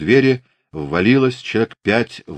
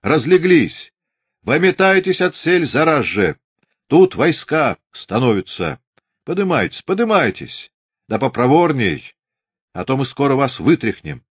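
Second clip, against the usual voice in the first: high, loud bullying shout; shouted orders; 7 semitones higher, 4 dB louder than usual. A narrator's reading. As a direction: rouse the sleepers with rough, urgent orders. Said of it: "крикнул".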